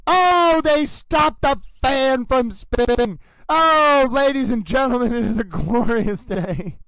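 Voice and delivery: towel cheering the court's return; lightly voiced excited towel; Little Towel voice. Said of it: "Stay with Little Towel".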